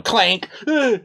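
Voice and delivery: clank and high grunt; fight sound effects. Acted. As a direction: act out the blows with your voice.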